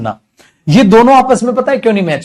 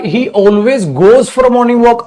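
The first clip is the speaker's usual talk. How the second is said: slow dictation; 3 semitones higher, much slower than usual. Shown as a demonstration. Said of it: "अगर मैं कह रहा हूं".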